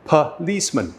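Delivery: "Policeman" with schwa first and last, puh-LEECE-mun; careful "Policeman", reduced first vowel; schwa demonstration. Shown as a demonstration. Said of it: "listen again as I pronounce".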